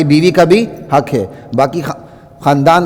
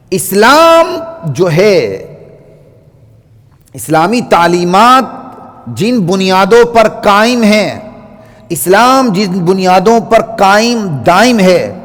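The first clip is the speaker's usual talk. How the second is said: slow, raised, solemn pulpit delivery; slow preaching; 2 semitones higher, slower than usual. Acted. Preacher declaring Islam's foundations to the congregation, slow and solemn. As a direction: lay out each foundation slowly from the pulpit.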